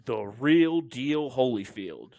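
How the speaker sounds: slow, drawn-out ring announcer. Acted. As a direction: draw it out like a boxing announcer. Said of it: "we have to say it like an announcer".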